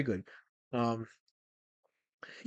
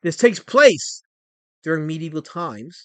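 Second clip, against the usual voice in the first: slower, spelling it out for chat; 3 semitones lower, slower than usual. Shown as a demonstration. Streamer repeats the show's setting slowly for chat. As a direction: repeat it slowly and clearly for the viewers. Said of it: "Let me say it slower".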